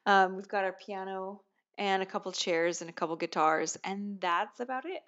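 echoey room sound, far from the mic; talking in a bare, echoey room. Real, not acted. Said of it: "I might sound echoey right now".

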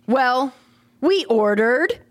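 odd emphasis with a long pause after WELL; mock slam-poet phrasing; slam poetry. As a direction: set WELL apart, lift the end of ORDERED. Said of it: "parts of a sentence that you wouldn't expect".

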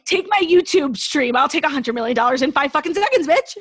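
jokingly insist, with brash eagerness; mock demand. Jokingly demanding the hundred million deal.

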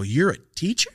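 really can't believe it, pitch up; incredulous. Retold or imitated. To the teacher in sweats, asked again in loud disbelief.

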